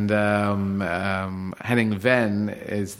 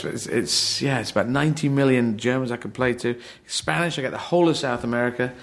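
retold excited retort; 3 semitones higher than usual. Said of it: "And I was saying".

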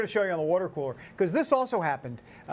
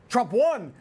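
a louder, gleeful "Trump won"; punchy sign reading; 4 semitones higher, 4 dB louder than usual. Retold or imitated. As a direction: hit "won" hard and land it. Reading a protest sign again.

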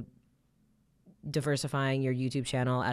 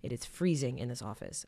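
shaking voice. Real, not acted. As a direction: voice trembling from the cold. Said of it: "I'm sorry if my voice is shaking".

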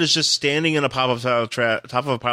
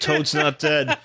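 slow words broken up by laughter; laughing; much slower than usual. Real, not acted. Friend riffs on the comic, laughing slowly. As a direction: laugh through a slow punning line. Joking riff on a revived hero.

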